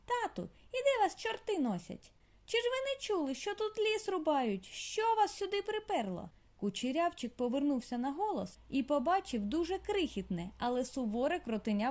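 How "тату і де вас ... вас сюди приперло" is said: very high, scolding squeak; a tiny stern girl telling off her dad; squeaky little voice. A narrator's reading. Daughter mole scolds her father, high squeaky voice. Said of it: "геть писклявий".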